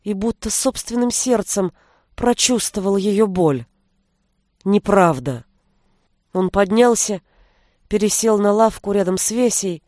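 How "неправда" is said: lower, gentle denial; soft denial. A narrator's reading. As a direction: quietly reassure her. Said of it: "Милош вздрогнул".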